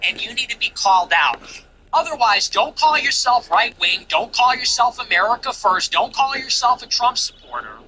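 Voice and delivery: heated rant. Real, not acted. Rallying rant calling people out.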